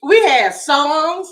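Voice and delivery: drawn-out, loud and high; remembering the Obama celebrations, stretched out; slow, savoring. Real, not acted. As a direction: savor each word. Fond memory of celebration.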